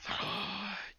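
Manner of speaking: quiet breathy gasp. Acted. Game master reacting to the fallen pastry eaten, gasp. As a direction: draw in a soft, audible breath.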